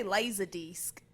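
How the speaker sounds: a light attempt at an Australian accent. Shown as a demonstration. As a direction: try it with Australian vowels. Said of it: "Can you do an Australian accent?".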